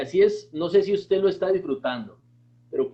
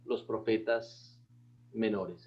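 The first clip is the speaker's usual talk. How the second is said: slow model phrase; 5 semitones lower, 7 dB quieter, slower than usual. Shown as a demonstration. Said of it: "repita conmigo".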